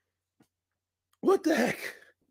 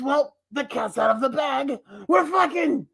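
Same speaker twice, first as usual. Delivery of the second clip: mock goblin; 4 semitones higher than usual. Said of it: "But then the goblin says".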